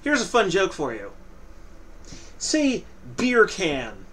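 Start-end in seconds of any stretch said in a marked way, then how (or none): 2.4-4.0 British accent. Shown as a demonstration. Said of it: "with a British accent".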